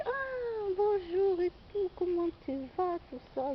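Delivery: bright, high, pleased hello; happy greeting. Retold or imitated. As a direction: greet her like you're glad to see her. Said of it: "j'étais contente".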